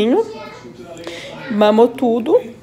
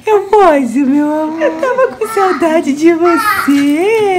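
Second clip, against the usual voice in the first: tearful laughter; 5 semitones higher, 4 dB louder, slower than usual. Real, not acted. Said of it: "eu tô ficando até emocionada".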